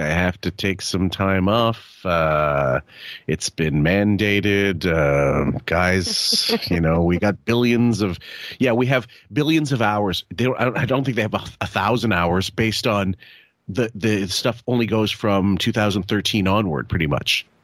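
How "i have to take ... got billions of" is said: slow, beaten-down, defeated voice, drawn-out "uh". Imitating a radio host from a clip, with defeat in his voice. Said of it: "this kind of defeat in his voice".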